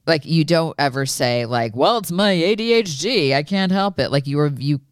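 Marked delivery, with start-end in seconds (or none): 1.8-4.1 high, mocking excuse voice; whiny excuse. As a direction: mimic a lame excuse.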